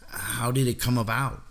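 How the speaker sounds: lightly voiced astonished young interviewer; startled. A narrator's reading. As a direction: ask as a startled boy. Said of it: "The boy was startled".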